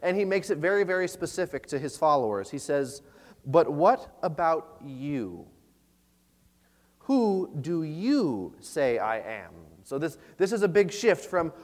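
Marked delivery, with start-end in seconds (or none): 3.4-9.5 solemn Jesus voice. Acted. Jesus voiced asking disciples.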